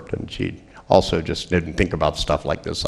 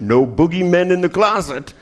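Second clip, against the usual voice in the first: higher, cheery dad checking the closet; reassuring dad; 8 semitones higher than usual. Retold or imitated. Dad to daughter at bedtime, higher cheery reassurance. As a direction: sound falsely comforting. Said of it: "he went".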